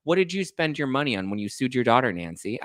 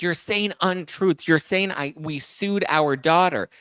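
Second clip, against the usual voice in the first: mock indignant; 7 semitones higher, slower than usual. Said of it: "She's like".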